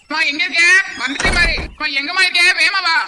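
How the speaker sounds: impatient call through the house; loud calling. Acted. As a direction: call out urgently for someone to come. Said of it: "ஏன் இப்படி சத்தமா கத்துறீங்க?". (அவசரமாக சத்தம் போட்டு கூப்பிடுதல்)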